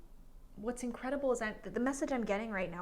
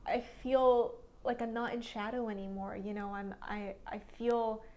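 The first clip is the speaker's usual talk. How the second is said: hopeful inner voice; 2 semitones higher than usual. Retold or imitated. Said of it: "it could be as simple as just, like".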